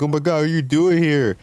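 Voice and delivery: imitating Spanish-speaking fans, high and delighted; excited fan greeting. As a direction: gush like a fan who just spotted a star. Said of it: "It's like".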